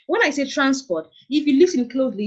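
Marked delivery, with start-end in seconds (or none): 0.5-1.1 TRANsport, first syllable stressed; "transport" as a noun, front-stressed. Shown as a demonstration. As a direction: hit "trans" in "transport", let "port" fall. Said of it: "stress has been placed on the first syllable".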